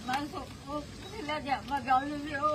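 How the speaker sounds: real tearful distress; distraught, tearful telling; crying. Real, not acted. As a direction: speak through tears, upset. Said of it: "રડશો નહીં, પહેલા રડશો નહીં".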